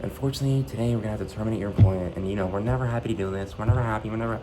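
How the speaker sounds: a hint of a polished HR script; lightly mock the smooth corporate tone; fake corporate voice. Manager firing him, lightly mocked corporate voice. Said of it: "little fake-ass corporate voice she does".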